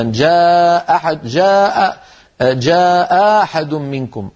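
slow "جاء أحد منكم", second hamza becoming long ā; hamza turned alif. Shown as a demonstration. Teacher demonstrating substitution, "جاء أحد" with hamza as alif. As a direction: stretch "جاء أحد" with a long alif replacing one stop. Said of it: "أو أبدلوها ألفا".

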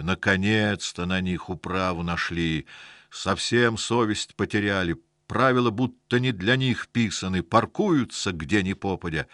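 rising indignant complaint; indignant rant. Acted. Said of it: "хрипло закашлялся дядя Костя".

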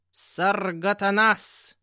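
slow, distinctly spelled name; each syllable crisp and slow; clear, precise voice. A narrator's reading. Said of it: "чётким голосом произнёс". (чётко, по слогам)

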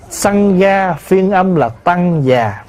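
slow Sangha, then Tăng Già in two syllables; full transliteration. Shown as a demonstration. Monk teaches the full form of the word, slow pronunciation. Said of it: "mà nếu nói cho đủ".

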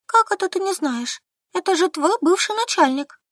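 высоко, с изумлением; не верит подруге; изумлённо. A narrator's reading. Возмущённое удивление Сольки. (изумлённый вопрос)

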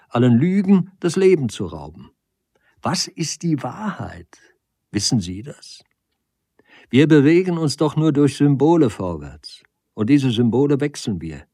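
impassioned, high-pitched argument; Nagel pleading his case. Acted. Nagel presses his question.

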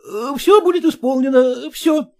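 high, hurried flustered clerk; flustered apology. Acted. Son-in-law caught out by father-in-law, high and flustered. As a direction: catch yourself and backpedal. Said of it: "спохватился".

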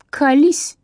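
high, loud demanding shout; loud yell. A narrator's reading. Zhanna yells at Katya to spill the story, loud shout. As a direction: bellow it so the next table turns round. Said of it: "завопила Жанна так".

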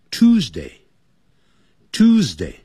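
Tuesday drawn out slowly; slow model reading. Shown as a demonstration. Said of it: "我们现在就跟着讲".

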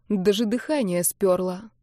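ordinary delivery, nothing marked

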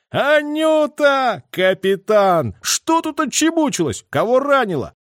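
loud, high, drawn-out hail; excited yell. A narrator's reading. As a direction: bellow it with gusto, slowly stretching the name. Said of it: "заорал азартно".

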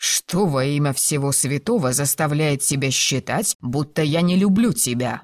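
usual speaking voice

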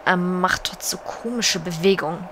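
uneasy aside in a whisper; whispered complaint about the tiger. Acted.

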